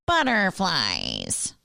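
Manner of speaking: slow, dragged-out half-hearted grumble; imitating a grumpy voice. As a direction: mimic the reluctant husband. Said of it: "And Matt goes".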